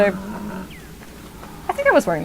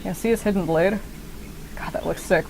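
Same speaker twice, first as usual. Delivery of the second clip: ordinary talk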